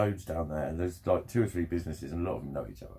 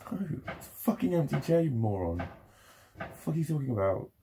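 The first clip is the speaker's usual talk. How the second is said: sneering put-on voice, higher; mock scorn; 4 semitones higher than usual. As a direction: scoff at a stupid question. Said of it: "is anybody sitting here".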